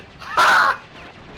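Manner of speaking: a burst of mock cartoon scream; imitated scream. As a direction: Crash Bandicoot advert scream. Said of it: "Including the scream at the end".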